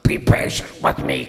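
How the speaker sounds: a light put-on beggar's plea; mock pleading. Pastor acting out the begging servant for Gabriel, mock pleading. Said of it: "I did that for Gabriel".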